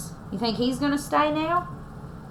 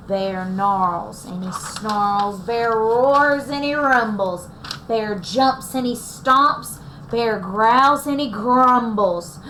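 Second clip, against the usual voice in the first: louder, slow, growly storytelling; dramatic read-aloud; 4 dB louder, slower than usual. A narrator's reading. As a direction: read it like an angry bear. Reading bear's angry actions.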